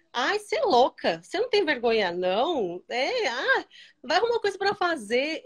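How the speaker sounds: imitating disapproving friends, swooping pitch; lightly acted reproach; mock scolding. Retelling friends' criticism of her early videos, mock scolding.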